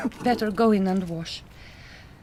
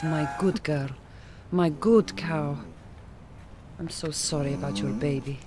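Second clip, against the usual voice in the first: tender low comfort for a cow that lost her calf; soothing a grieving cow; 3 semitones lower than usual. Acted. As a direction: murmur to the cow like to a sick child. Vet soothing grieving cow after stillbirth.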